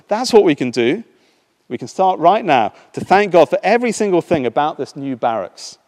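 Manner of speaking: high, loud eager insistence; Betsy urging Corrie to thank God, excited. Acted. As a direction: urge it with joy. Betsy eager, found the answer.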